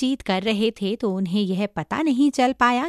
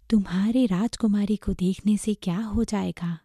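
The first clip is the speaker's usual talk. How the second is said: lightly voiced monk with a husky half-whisper; sceptical master. Master questioning his monkey disciple, sceptical. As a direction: ask in a hushed, husky voice.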